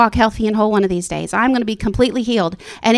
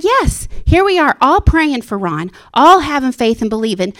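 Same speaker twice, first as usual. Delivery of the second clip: excited thought; 3 semitones higher, 3 dB louder than usual. Retold or imitated. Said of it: "I thought".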